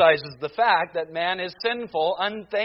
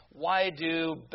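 ordinary delivery

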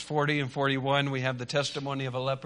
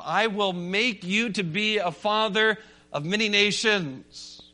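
ringing, declarative sermon delivery; emphatic preaching; 6 semitones higher, 5 dB louder than usual. Real, not acted. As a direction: preach it with conviction, landing each key word.

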